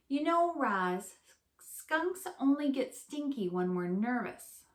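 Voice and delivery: bright little critter, pleased to meet you; a cheerful skunk greeting her famous guests; friendly skunk voice. Acted.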